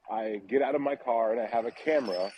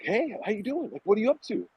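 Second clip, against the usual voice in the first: high-pitched, over-friendly greeting; charismatic teens; 11 semitones higher than usual. Retold or imitated. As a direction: imitate super-charismatic teenagers saying hi. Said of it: "they're super charismatic".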